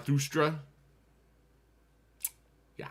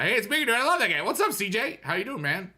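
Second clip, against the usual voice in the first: excited greeting; 12 semitones higher, 5 dB louder, faster than usual. Real, not acted. Greeting a chat viewer.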